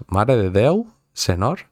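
"Madre de Déu, senor" tried out with a questioning rise; "senor" said with a plain n, questioningly; trying Catalan pronunciation. Shown as a demonstration. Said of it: "¿Cómo es?".

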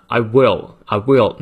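I will run together as "eye-ywill"; linked words. Shown as a demonstration. Teacher linking I will for students, joined smoothly. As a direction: glide from I straight into will. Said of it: "连到一起呢".

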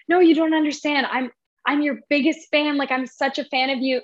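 imitating a gushing, excited fan. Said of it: "she starts freaking out".

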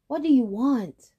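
high, loud challenge; challenging call. Acted. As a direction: call out boldly. Boy challenges Big Buffalo.

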